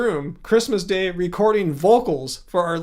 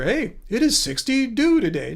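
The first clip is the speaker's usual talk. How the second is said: higher-pitched mock assistant reply; imitated voice assistant; 5 semitones higher than usual. Streamer mimics the phone giving today's temperature, imitated voice assistant. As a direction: answer like a phone assistant, saying "sixty do" for sixty-two. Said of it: "Australian Shlomo voice".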